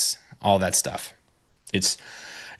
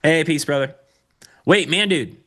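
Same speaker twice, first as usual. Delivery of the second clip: calling out; 7 semitones higher, 3 dB louder than usual. Real, not acted. Calling after a leaving coworker.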